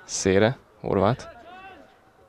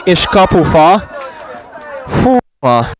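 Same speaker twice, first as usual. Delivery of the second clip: sudden loud, high shout of excitement; excited sports commentary; 6 semitones higher, 7 dB louder, slower than usual. Real, not acted. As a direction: erupt as the ball hits the post. Hit the post, commentator erupts.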